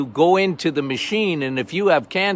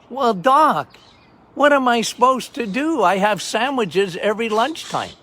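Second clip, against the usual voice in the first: higher pleading patient voice; whiny patient; 5 semitones higher than usual. Retold or imitated. Patient objecting to the doctor, higher and pleading. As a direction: lift the voice and plead. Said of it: "patient voiced in story".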